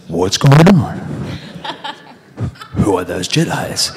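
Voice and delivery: can't hold the line for giggling; laughing again. Retold or imitated. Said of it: "So I was going".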